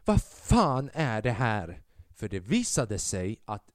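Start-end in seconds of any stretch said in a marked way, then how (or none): 0.0-1.8 slow, mildly raised mock yell of an angry old lady. Comedian imitates the old lady yelling from the audience, mild mock yell. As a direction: drag out the outrage, half-shouting. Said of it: "skriker bara en, en gammal dam ut".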